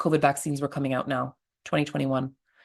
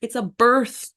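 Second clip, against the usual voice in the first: much higher, louder, laughing disbelief; exasperated scolding; 10 semitones higher, 5 dB louder than usual. Retold or imitated. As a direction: scold him like he missed the whole point. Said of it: "I'm like".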